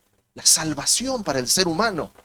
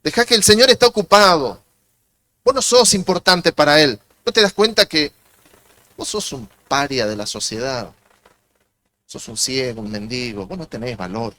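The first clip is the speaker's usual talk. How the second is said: scolding crowd; 5 dB louder than usual. Retold or imitated. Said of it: "le dicen".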